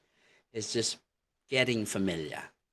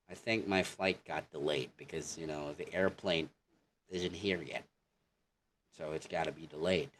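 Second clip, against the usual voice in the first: American accent; 3 semitones lower, 3 dB quieter, faster than usual. Shown as a demonstration. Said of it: "in American accent".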